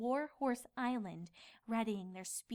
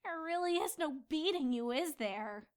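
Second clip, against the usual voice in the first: groaning; 5 semitones higher than usual. Acted. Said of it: "she groaned".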